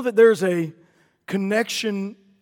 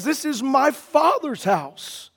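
bold declaration; 4 semitones higher, slower than usual. Acted. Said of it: "ever heard anybody really talk like that".

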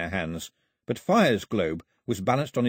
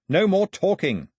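high, loud, slow command; firm order; 9 semitones higher, 5 dB louder than usual. A narrator's reading. Mao hurrying companions out, firm order. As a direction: cut the chatter short forcefully.

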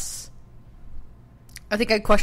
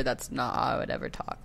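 forced low, soft voice; pushed deeper; 6 semitones lower, 9 dB quieter than usual. Shown as a demonstration. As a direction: push below your natural register. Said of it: "if I push it any deeper".

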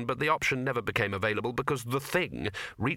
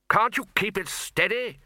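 high-pitched, raised-voice demand; 9 semitones higher, 4 dB louder than usual. A narrator's reading. Arch-Chancellor to the bursar on broomstick, exasperated demand. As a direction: demand steadier flying, exasperated. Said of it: "the Arch-Chancellor demanded".

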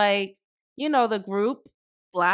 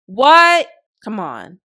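incredulous; 7 dB louder, slower than usual. Real, not acted. Reacting to media telling us to vote for her, incredulous.

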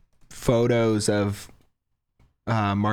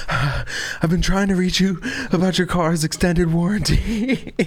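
slow, higher deadpan robocall read, mock-serious; robocall pitch; 6 semitones higher, slower than usual. Comedian on the rescue boat, deadpan robocall voice. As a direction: drawl the warranty line like a recorded scam call. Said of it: "he gets on the boat and he goes".

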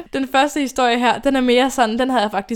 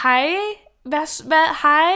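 half-panicked yell from inside the booth; shouting back; 5 semitones higher, slower than usual. Retold or imitated. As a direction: shout back at the stranger, flustered. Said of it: "prøver sådan at råbe lidt tilbage".

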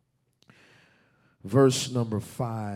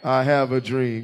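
yelling across the room; 2 semitones higher, 8 dB louder than usual. Shown as a demonstration. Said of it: "Use your ghetto voice".

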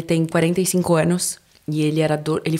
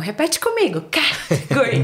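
much higher, teacherly student voice; English students correcting their teacher, higher and didactic; imitating the students; 5 semitones higher, slower than usual. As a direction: coach the teacher like a patient classmate. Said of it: "Aí elas ficavam".

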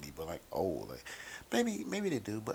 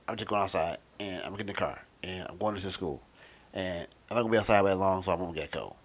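lightly voiced raspy kid. Kid explaining why no coat is needed, raspy kid voice. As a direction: imitate a kid with a touch of rasp. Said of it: "that's my kid voice, my raspy kid voice".

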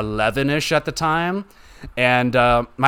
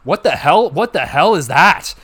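higher, louder mock gasp of outrage; shocked grandma; 4 semitones higher, 6 dB louder than usual. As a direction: play a startled grandmother catching a swear. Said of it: "She's like".

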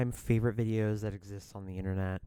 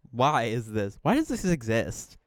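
baffled disbelief. Retold or imitated. Host retelling their reaction to the new cartoon cats, baffled disbelief. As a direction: climb in pitch as if exasperated.

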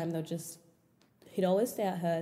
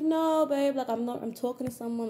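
retold protest; 5 semitones higher than usual. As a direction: imitate a friend's higher-pitched denial. Retells friend denying the relationship.

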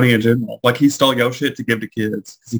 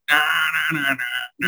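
imitated speeding engine; 3 semitones higher, 4 dB quieter, much faster than usual. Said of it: "like, ninety down the road".

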